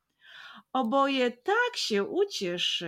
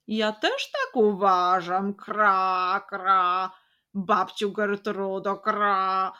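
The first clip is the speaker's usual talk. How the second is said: louder cawing crow with croaked kra; 5 dB louder, slower than usual. Acted. Crow speaking to her sister, cawing loudly. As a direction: caw the words like an old crow. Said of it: "odkrakała druga".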